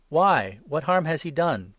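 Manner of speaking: loud, high, protesting question; Pilate's loud plea. Acted. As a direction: demand an answer over the mob. Pilate pleads with the crowd.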